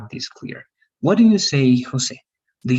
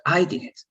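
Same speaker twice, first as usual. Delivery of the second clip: "I" leaned on as the doer; firm emphasis on "I", the rest lighter; stress on I; 4 semitones higher than usual. Shown as a demonstration. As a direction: put the weight on "I". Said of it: "you want to emphasize that you".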